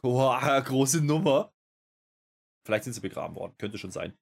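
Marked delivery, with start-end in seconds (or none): 0.0-1.5 mock awe. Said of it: "da haben ja alle gedacht".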